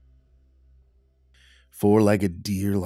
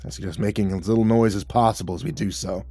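gruff guide; 2 semitones higher, 4 dB louder than usual. Acted. Scarred man voiced.

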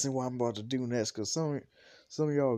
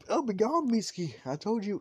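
higher, louder acted irritation; irritated brush-off; 9 semitones higher, 4 dB louder than usual. Sleeper to someone trying to wake him, irritated. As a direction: wave someone off in a raised, higher voice.

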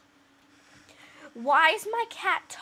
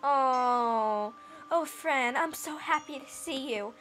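manly cat voice; slower than usual. Acted. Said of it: "a very manly cat".

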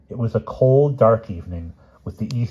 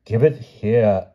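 rising tone; 3 semitones higher, 4 dB louder, slower than usual. A narrator's reading. King wants his poem back, rising tone starting. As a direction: demand it slowly, starting the climb. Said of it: "added he in a rising tone".

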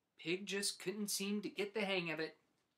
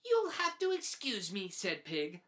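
playful turnabout; happy brush-off; 4 dB louder than usual. Acted. Pig dances off, cheerfully too busy for friends.

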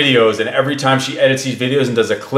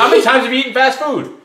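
asked higher through laughter; laughing question; 11 semitones higher, faster than usual. Real, not acted. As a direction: repeat it while cracking up. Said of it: "repeats question laughing".

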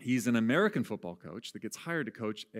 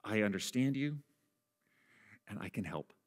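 soft, reassuring pastor voice, trailing quieter; 5 dB quieter than usual. Retold or imitated. Pastor assures a struggling person, soft and calm. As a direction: gently assure them you understand. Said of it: "this really great face".

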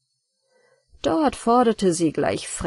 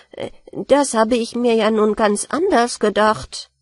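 puzzled. Acted. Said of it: "dachte die Ratte verblüfft".

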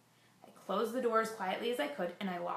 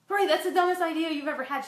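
higher and louder self-mockery, scoffing at her own idea; self-scolding; 8 semitones higher, 8 dB louder than usual. Mother mocks her own plan to hide the baby, high and louder. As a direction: snap at yourself in disbelief.

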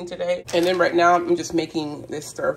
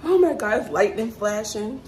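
higher-pitched alarm at the storm; frightened, pitched up; scared; 4 semitones higher than usual. Real, not acted. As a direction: react nervously to sudden lightning. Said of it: "I'm so scared".

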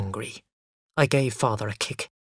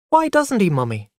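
put-on high, louder child's voice, falling on Mummy; questioning child; 8 semitones higher, 5 dB louder than usual. A narrator's reading. Small boy asks Mummy about Daddy, puzzled. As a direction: pipe up high like a little boy.

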